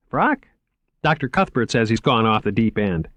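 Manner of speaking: bright, earnest museum curator voice; eager young curator. Acted. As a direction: pitch it up, keen and selling. Curator voice again.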